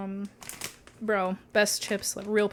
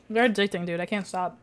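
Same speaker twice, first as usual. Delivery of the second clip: munching between words; chewing while talking. Real, not acted. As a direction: mouth full of chips. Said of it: "Sorry for the munching A S M R".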